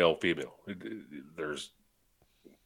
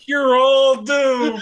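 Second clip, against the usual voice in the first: slow ominous drawl; 10 semitones higher, 5 dB louder, much slower than usual. Pretend. Threatens the beers.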